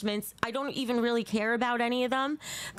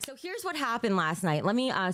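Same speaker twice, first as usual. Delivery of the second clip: ordinary talk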